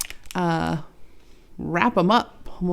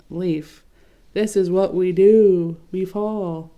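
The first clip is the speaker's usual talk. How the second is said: mocking; 6 dB louder, slower than usual. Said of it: "kind of mocking".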